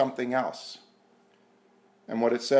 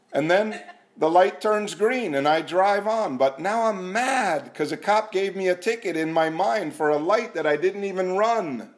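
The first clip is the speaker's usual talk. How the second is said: higher and louder, rising into indignation; worked-up retelling; 5 semitones higher, 3 dB louder than usual. Retold or imitated. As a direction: relive the imaginary argument with the cops, getting hotter. Imagined cop fight at stoplight.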